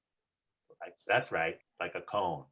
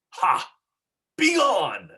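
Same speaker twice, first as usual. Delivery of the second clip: loud, high bellowing laugh and banishment; demon laugh and command; 8 semitones higher, 5 dB louder, slower than usual. Shown as a demonstration. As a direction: roar it out like a monster. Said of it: "you wanna try that now".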